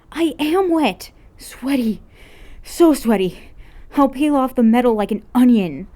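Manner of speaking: high, loud and melodramatic; hammed-up complaint about being sweaty; whining girl. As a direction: wail it like it's a tragedy. An's dramatic whine.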